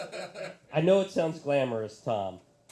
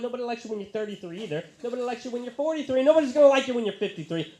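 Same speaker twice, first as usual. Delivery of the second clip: building rant; 6 semitones higher, 5 dB louder, faster than usual. Real, not acted. Ranting parody of the lyric.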